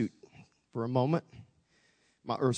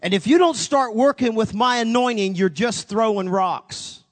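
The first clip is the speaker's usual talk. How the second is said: loud stern rebuke, slowing at the end; stern divine rebuke; 6 semitones higher, 7 dB louder than usual. Retold or imitated. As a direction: drive the warning home. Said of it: "That was the tone he used".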